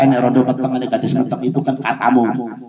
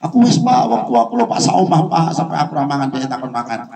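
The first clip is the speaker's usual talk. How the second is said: imitating a client. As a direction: mimic a pleading caller. Voices a complaining client. (menirukan klien yang mengeluh dengan suara tinggi)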